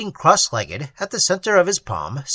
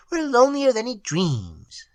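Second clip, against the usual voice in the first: tiny troll voice; 7 semitones higher than usual. A narrator's reading. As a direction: sigh it like a sad tiny sprite.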